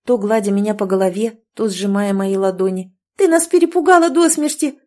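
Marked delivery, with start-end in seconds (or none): 3.2-4.8 much higher and louder, overlapping joyful cries; excited shouting. A narrator's reading. Friends finding Catherine alive, loud and high excited cries. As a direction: friends bursting with relief. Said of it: "кричали подруги".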